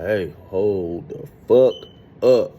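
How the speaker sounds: slow, loud warning; hold up. Retold or imitated. Telling the men in the shower to stop, slow stern warning. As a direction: drag it out to freeze them. Stopping the fight.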